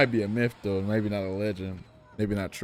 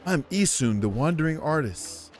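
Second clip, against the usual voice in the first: indignant little sprite; 3 semitones higher than usual. Acted. Voicing Isun character dialogue.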